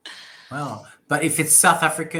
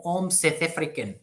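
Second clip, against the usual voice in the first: South African accent. Shown as a demonstration. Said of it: "they say Seth".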